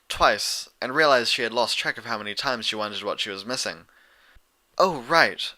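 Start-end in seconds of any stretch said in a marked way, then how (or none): 4.8-5.5 Twilight. Acted. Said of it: "Twilight agreed".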